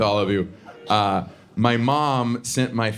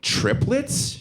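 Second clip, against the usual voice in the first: put-on much higher, nosy old lady asking; mom's voice; 12 semitones higher than usual. Mom quizzing a stranger at checkout, high prying voice. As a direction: pipe up high like a blunt little old mother. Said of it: "My mom looks at her and goes".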